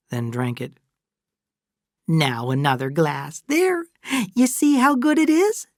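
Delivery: high motherly urging; Fay, insistent and coaxing. Acted. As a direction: press the drink on her, pitch climbing brightly at the end.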